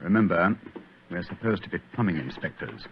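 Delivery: soft, low sneaking voice; hushed whisper. Acted. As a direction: whisper so nobody hears. Sneaking through dark cellar.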